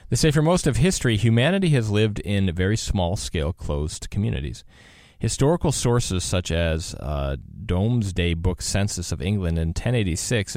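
measured, emphatic presenter reading; article read-aloud. Acted. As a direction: read the write-up out on air. Reads an article aloud on air.

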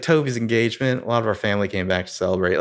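quick imitated Southern accent. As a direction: mimic a Southern US accent, moving briskly. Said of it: "like, a Southern accent for some reason".

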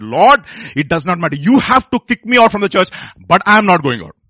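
loud, insistent vow to God; preaching. Retold or imitated. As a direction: plead it boldly, pushing the key words.

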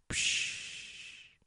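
soft, drawn-out shush; hushing. Acted. People silence someone with a vision, soft hushing. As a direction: let out a long "psch".

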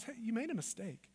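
soft, gentle correction; kind God. Acted. God inviting you back, soft and kind. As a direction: point it out quietly and kindly. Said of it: "The kind voice of God says".

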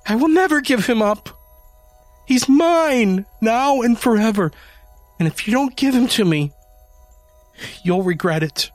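high, loud menacing demand; shrill threat. A narrator's reading. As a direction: threaten him, pitch way up. Janie threatening Adam.

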